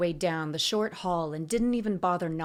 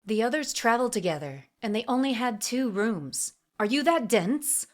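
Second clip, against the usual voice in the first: quick, higher, huffy retort; 5 semitones higher, 3 dB louder than usual. A narrator's reading. Assassin chiding a dense companion, huffy. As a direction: explain it with mounting impatience. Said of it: "she huffed".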